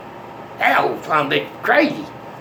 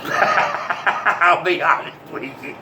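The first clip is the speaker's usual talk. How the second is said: laughing; slower than usual. Real, not acted. Laughs after getting carried away.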